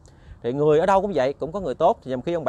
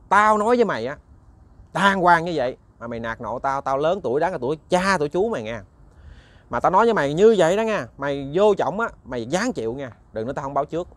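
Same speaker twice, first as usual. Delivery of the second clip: angry warning. Acted. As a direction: warn him off firmly in anger. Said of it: "ông Bảy cũng giận". (giọng ông già giận dữ cảnh cáo)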